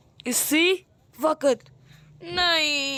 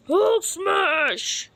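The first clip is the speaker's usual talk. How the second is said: Hulk roar; 3 semitones higher than usual. Acted. Hulk character attacks.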